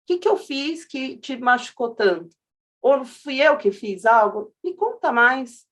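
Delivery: slow, gentle and open; calm empathy. Retold or imitated. Answering an attacker with empathy.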